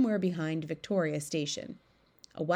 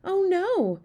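high, loud frightened cry in sleep; sleep talking; 12 semitones higher, 6 dB louder than usual. A narrator's reading. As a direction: cry out from a nightmare. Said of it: "sleep talker's voice".

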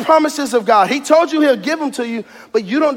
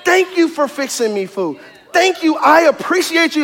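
grateful thanks; 3 dB quieter than usual. Retold or imitated. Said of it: "go to them and say".

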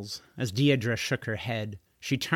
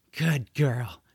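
understated pat-the-pet praise; mild praise. Acted. George praising the dragon after the rescue, mildly pleased. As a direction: praise her gently, voice near usual.

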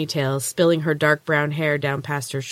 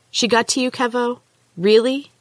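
high, incredulous accusation; can't believe he turned on her; disbelief; 8 semitones higher than usual. A narrator's reading. Accusing friend who betrayed her.

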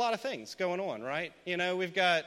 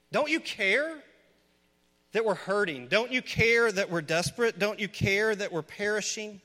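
desperate world crying out; 3 semitones higher, 3 dB louder than usual. Acted. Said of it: "the world screams to the church".

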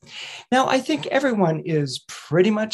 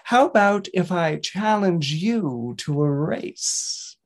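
slow, deliberate tortoise; slow tortoise challenge; slower than usual. Acted. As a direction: lay down the challenge slowly. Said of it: "the tortoise replied".

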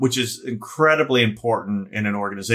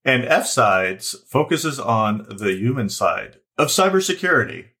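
slow radio host voice, pitched up on the last word; announcer voice; slower than usual. Pretend. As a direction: boom it out like a show host announcer. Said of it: "I'm gonna do it in a different announcer voice".

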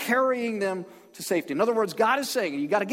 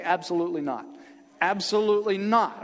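ABSOLUTELY NOT said firmly, NOT hit hard; emphatic call-and-repeat. Shown as a demonstration. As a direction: lead the room in a firm "Absolutely not". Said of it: "Say that with me. Say".

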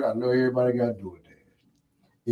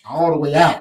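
laughing through words; 5 semitones higher, 9 dB louder than usual. Real, not acted. Laughing while hyping his skit.

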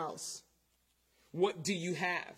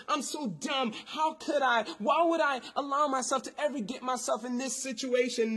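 self-blaming thoughts; 4 semitones higher than usual. Retold or imitated. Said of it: "She's probably thinking".

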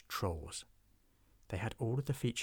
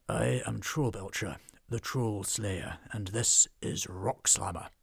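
slow, loud proud introduction; grand dwarf boast; 4 dB louder, slower than usual. Acted. Dwarf proudly introducing himself and his axe, slow and loud. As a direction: announce yourself like a legend.

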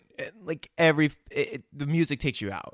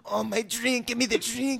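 high, needy mock whine; mock desperate begging; 10 semitones higher than usual. Imitating a man desperate for his drink, mock begging. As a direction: beg for it in a high voice.

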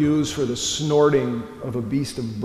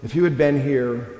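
mild anger. Retold or imitated. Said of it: "a statement laced with anger".

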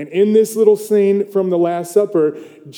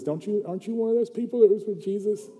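higher, softer, quick questioning voice; little girl; 4 semitones higher, 6 dB quieter, faster than usual. Retold or imitated. Little girl questions a disciple by the fire, curious child voice. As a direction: lightly imitate a little girl asking.

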